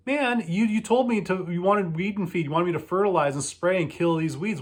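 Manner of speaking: high exasperated retort to the customer; exasperated argument. Retold or imitated. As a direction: argue back, incredulous. Arguing with customer.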